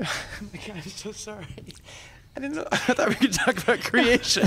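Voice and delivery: high, cracking laugh-cry; real laughter breaking into tears; laughing through tears. Real, not acted. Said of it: "Just abject weeping".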